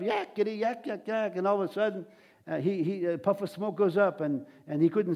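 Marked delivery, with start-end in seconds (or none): 0.0-1.4 jabbering demon. Retold or imitated. Demon interrupting Jesus as he teaches, jabbering. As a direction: mimic a demon's yak-yak lightly. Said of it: "This demon starts jumping up".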